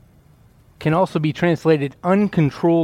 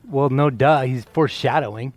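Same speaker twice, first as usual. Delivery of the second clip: put-on teen voice. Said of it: "That's a teen voice".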